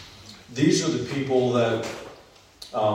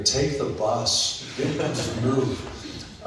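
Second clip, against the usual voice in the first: mock road rage; much slower than usual. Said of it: "it's moved with frustration".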